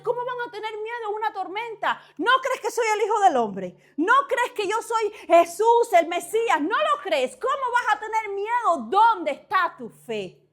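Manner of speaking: Jesus rebuking. Acted.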